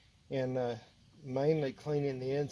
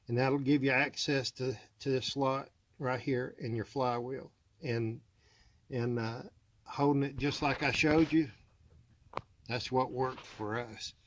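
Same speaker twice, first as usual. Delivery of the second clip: talking while lying under a car; speaking flat on your back under a car. Real, not acted. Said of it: "but I'm under the car".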